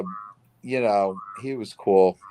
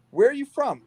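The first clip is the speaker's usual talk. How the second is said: put-on quoting the girl; 10 semitones higher than usual. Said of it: "one day she goes".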